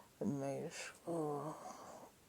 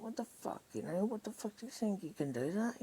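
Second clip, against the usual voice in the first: retold furious outburst; 8 semitones higher, faster than usual. Confronting him in front of Julie, high and furious. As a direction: hurl the questions at him in disbelief. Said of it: "And I lose my shit on him".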